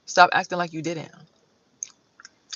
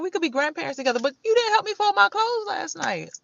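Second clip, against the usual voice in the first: lightly mocking dude; 11 semitones higher than usual. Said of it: "dude was like".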